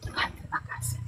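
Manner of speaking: very soft, nearly voiceless sigh; hushed, breathy thanks to God; breathed prayer of thanks. Retold or imitated. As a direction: let it out on a long breath. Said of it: "saya menarik nafas".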